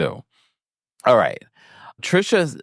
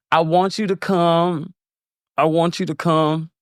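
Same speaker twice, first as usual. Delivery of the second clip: mock tight-lipped invite, higher; 8 semitones higher than usual. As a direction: say it through clenched teeth, forced politeness. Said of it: "speaking through tight-lipped teeth".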